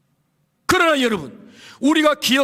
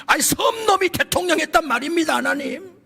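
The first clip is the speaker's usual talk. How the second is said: high, insistent protest to God; indignant protest; 6 semitones higher than usual. Retold or imitated. Pastor pleads his island's case before God, high and insistent. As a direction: argue the point, higher and emphatic.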